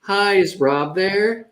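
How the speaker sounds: put-on random girl call voice. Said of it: "random girl call voice".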